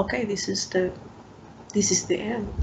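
hushed, despairing whisper. Retold or imitated. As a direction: breathe it out quietly. Retold thought of despair.

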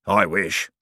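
wistful ghostly character voice; understated, rueful longing; sad. A narrator's reading. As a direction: sigh it out with mild regret. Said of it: "said Fleed sadly".

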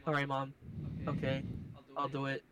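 subdued, grudging replies to mom; pissed-off compliance. Retold or imitated. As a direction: give in curtly, retelling it. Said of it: "I got pissed off".

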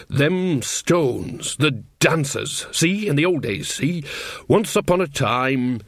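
put-on evasive old witch. Voices Nanny Ogg explaining.

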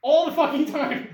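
almost shouting with enthusiasm; excited outburst. Real, not acted. Excited rant about life.

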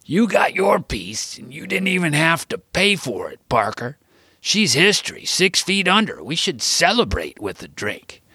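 put-on high, whispery old man voice; cranky grandpa taunting; Gramps voiced. A narrator's reading. Grandfather needling his grieving grandson, high cranky voice. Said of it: "Gramps shouted".

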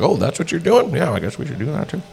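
high, wide-eyed copycat voice; mock eager copycat. Mocking themselves copying Skylar's email list, high and eager. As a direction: play the eager imitator catching on. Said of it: "Just like".

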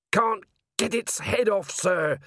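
high, slow troll voice; troll sergeant. A narrator's reading. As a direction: report a problem as an earnest troll. Troll reports to captain.

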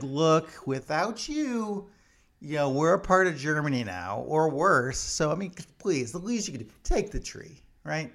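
a hint of a pleading foreigner insisting; mock earnest pleading. Norway insisting Britain take tree.

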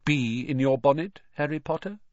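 a small voice right in his ear; talking hat. Acted. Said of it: "a small voice said in his ear".

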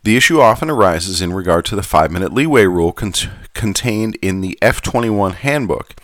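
put-on light Southern gentleman accent; old southern gentleman. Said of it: "going back to my Southern gentleman accent".

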